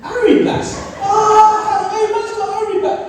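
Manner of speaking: high, loud laughing jeer; mocking laugh. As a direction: crow it out to the crowd. Friend mocking fake brand.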